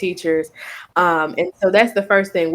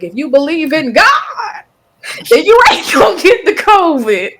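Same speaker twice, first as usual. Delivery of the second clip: mocking churchgoer voice; 8 semitones higher, 7 dB louder than usual. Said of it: "How some folks were like".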